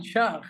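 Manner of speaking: "shark" ending in a Liverpool kh; Liverpool accent. Shown as a demonstration. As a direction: say "shark" Scouse, k turned to a throaty kh. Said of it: "this is the Liverpool accent".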